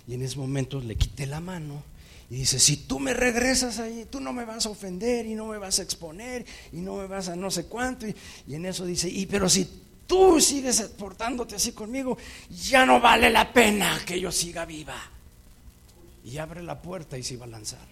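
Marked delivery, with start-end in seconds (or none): 2.6-8.1 angry threat. Retold or imitated. Girlfriend threatening him. 9.1-15.1 much louder, higher desperate threat; desperate outcry. Retold or imitated. The girlfriend threatens to jump from the car, much louder.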